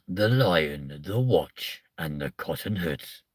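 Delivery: lightly voiced movie trailer; mock trailer voice. Pitching a fake film title as a trailer voiceover. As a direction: announce the title like an advert. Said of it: "Out now on Blu-ray".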